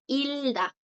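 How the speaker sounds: "ilda" with no G sound; "ilda" as a teacher's example; blocked G. Shown as a demonstration. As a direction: run L straight into D in "ilda". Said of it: "la bloquea".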